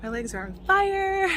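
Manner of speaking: breathless from the climb; panting after the steep hike; out of breath. Real, not acted. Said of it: "really out of breath right now".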